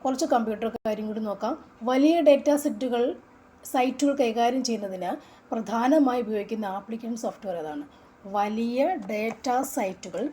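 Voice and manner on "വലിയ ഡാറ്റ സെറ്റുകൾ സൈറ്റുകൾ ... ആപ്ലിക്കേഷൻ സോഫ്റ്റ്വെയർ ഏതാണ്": loud question read. Shown as a demonstration. Reading quiz question aloud.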